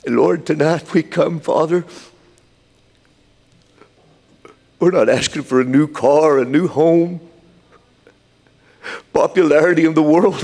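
impassioned address to God; fervent prayer. Real, not acted. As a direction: lift the prayer up, pausing long between pleas. Prayer rises in fervour.

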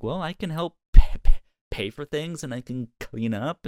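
chirpy volunteer pitching in; eager offer. Retold or imitated. To roommates, eagerly offering to pay and clean. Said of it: "And me, I'm like".

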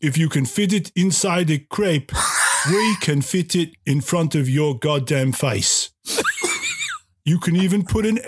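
badly faked French accent with dramatic pauses; mock French accent. Restaurant host pitches his crepe buffet, in a mock French accent. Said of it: "I do a really good French accent".

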